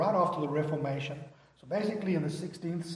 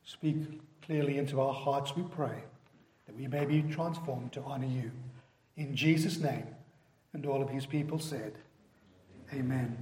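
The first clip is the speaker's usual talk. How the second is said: softer, measured prayer voice; congregational prayer; 3 semitones lower, 4 dB quieter than usual. Real, not acted. Pastor praying to God before the congregation, softer prayer voice. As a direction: pray quietly with pauses between phrases.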